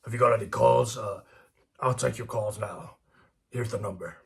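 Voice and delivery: lightly voiced radio host; a hint of talk show host; Alex Jones. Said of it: "listen to Alex Jones, he'd be like".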